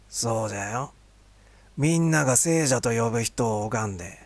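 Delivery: an elder speaking calmly of the saint; creaky wise old man. Acted. Old vendor praises the saint.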